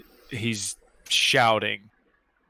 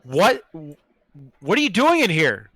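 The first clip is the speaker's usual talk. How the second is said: higher-pitched bewildered question; confused, raised-pitch waking reaction; startled awake; 4 semitones higher, 4 dB louder than usual. Acted. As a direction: demand an answer, startled out of sleep. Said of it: "I come to my senses and be like".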